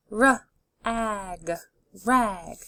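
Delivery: d, ot, dot, parts pulled apart then joined; D, ot, dot: each part separate, then the whole word; segmented then blended. Shown as a demonstration. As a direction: sound it out and blend it. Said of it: "Keep saying 'em out loud".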